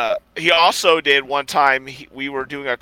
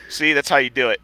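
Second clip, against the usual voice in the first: mock bragging shout. Uncle bragging after getting paid.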